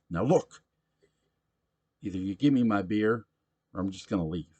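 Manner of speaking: put-on loud, high rowdy drunk voice; a belligerent barfly demanding his beer; drunk pushy patron. Sam fed up.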